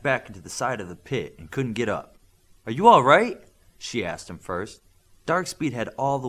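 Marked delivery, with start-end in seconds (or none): 2.7-3.4 concerned. A narrator's reading. Worried question after a crash.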